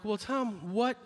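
mock fretful audience member; whiny audience voice. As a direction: audience member whining at Tom. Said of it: "going like".

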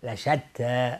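لشتی with thin t and open ending; open light ta. Shown as a demonstration. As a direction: mouth spread open on the t of لشتی.

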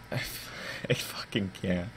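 breathy whispered disbelief. Real, not acted. Overwhelmed after the scare.

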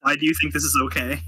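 brisk, mildly stern challenge; fast, understated reprimand. Acted. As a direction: press the question quickly, lightly scolding. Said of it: "very sternly is like".

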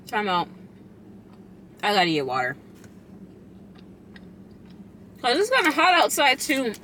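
chewing between words; muffled behind hand; talking with mouth full. Real, not acted. Seen 5: Bites burrito at -3, chews through words, hand over mouth later.

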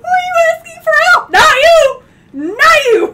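shouting through laughter. Retold or imitated. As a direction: shout it while cracking up. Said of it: "And she's like".

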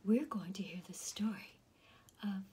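ASMR whispered story reading; whispered storytelling. Acted. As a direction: whisper the story like a bedtime secret. Whispering reader throughout.

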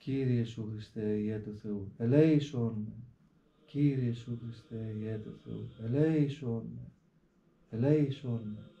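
slow, mindful, each word felt; heartfelt prayer. Shown as a demonstration. Monk showing how the fathers pray with understanding, slow and heartfelt. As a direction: pray it meaning every word. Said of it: "προφέρουνε με πολύ ωραίο τρόπο, έτσι, κατανοητικά".

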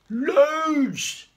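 high loud greedy cry; loud shout. A narrator's reading. The siblings shout their answer, high and loud.

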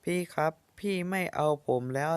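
put-on a child pleading, close to tears; tearful plea. Boy begs sister not to abandon him, tearful. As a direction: beg the sister not to leave you. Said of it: "อย่าร้องไห้สิ".

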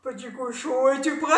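a touch of a shout; wolf calling out. Acted. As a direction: call to the pig outside. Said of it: "le loup arriva en criant".

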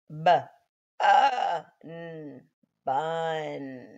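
b, uh, n, then blend bun; sounding out. Shown as a demonstration. Teacher to kids: tap out bun. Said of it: "You should have the letters for".

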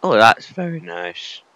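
high, slow, cracking on very nice; an admiring oh that cracks upward. Real, not acted. Player admiring the view, voice cracking high and slow. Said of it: "Oh, my voice cracked then".

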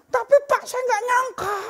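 high, loud cry of disbelief; stunned wife, voice way up; shocked wife. Retold or imitated. Shocked wife tells the pastor.

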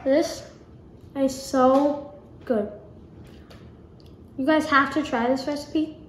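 talking with a mouthful; chewing while speaking; mouth full. Real, not acted. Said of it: "I'm talking with my mouth full".

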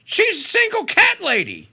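sneering mock gossip; mock cat lady jab. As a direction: lay the sarcasm on thick.

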